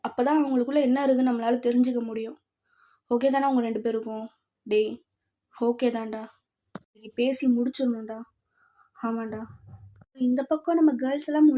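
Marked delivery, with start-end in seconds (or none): 0.1-9.4 slightly lowered, quieter conspiring voice; lightly voiced boys plotting. Boys agreeing on a night plan, hushed and low. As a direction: confer low and softly, lightly in character.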